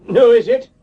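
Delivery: startled jump in pitch; surprised. Acted. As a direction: blurt it out in shock. Startled at the bank.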